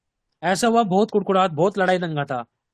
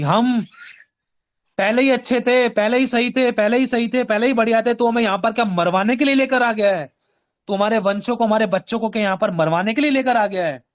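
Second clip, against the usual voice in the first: louder, higher mock complaint, piling up grievances; acted grumbling protest; 4 semitones higher, 3 dB louder than usual. Preacher voicing Israelites blaming their leader for certain death, grumbling. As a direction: imitate an aggrieved crowd, voice raised. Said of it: "वो इतना कुड़कुड़ाए".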